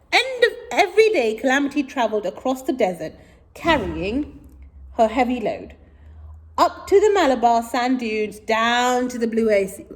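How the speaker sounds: put-on lively read-aloud for children; story reading. A narrator's reading. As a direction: read it out brightly to kids.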